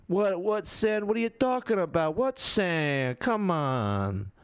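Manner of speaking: high, drawn-out incredulous "what sand"; mock disbelief. Streamer denying a friend's accusation, incredulous. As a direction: play innocent with exaggerated disbelief.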